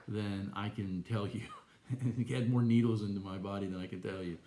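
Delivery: laughing through the words; wry laugh. Real, not acted. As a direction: chuckle as you list the needles.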